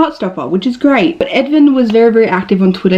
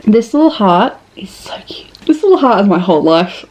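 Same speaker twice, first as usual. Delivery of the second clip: whisper. Real, not acted. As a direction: breathe the words like a secret. Cooing over her tattoo heart.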